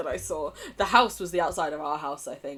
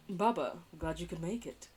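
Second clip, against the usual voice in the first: softer, lightly southern character voice; slightly southern; 6 dB quieter than usual. Acted. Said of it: "I tried to make him a bit southern".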